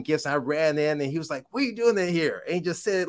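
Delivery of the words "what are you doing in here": imitating dad's abrupt question, a little raised; retold brusque challenge from a father. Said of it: "like, abruptly".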